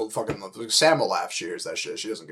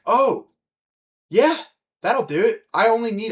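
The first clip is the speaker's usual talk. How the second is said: high, loud burst of fake delight; mock eager acceptance; 10 semitones higher, 5 dB louder than usual. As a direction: pretend the offer is perfect.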